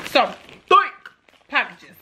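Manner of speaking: slow mermaid voice. Pretend. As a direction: drag it out like a mermaid. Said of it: "Stop talking like a mermaid".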